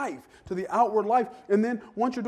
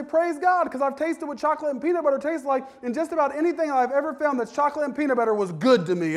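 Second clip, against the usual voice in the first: excited praise; 6 semitones higher than usual. Retold or imitated. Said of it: "I'm gonna say".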